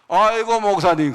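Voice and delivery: put-on old man suddenly recognizing the pastor, loud with joy; delighted recognition. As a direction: greet him like a long-lost friend. Old governor suddenly recognizes him.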